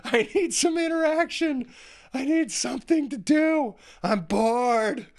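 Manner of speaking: hammed-up whiny child; whiny kids. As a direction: play a bored kid begging for attention. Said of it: "the kids are like".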